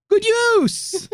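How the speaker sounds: high mocking echo; mock it sarcastically; sarcastic.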